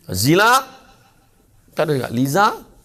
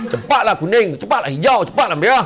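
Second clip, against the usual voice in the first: impatient; 8 semitones higher, 5 dB louder than usual. Acted. Marah pada lampu isyarat.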